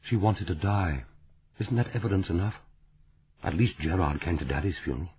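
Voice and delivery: lightly voiced sad Frances, hushed and bitter; grieving woman. Frances bitter about Gerard.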